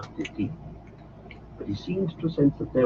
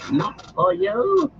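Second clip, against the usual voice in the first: higher, louder hoarse cry; 5 dB louder, slower than usual. Acted. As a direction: spit it out in fury. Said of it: "he cried".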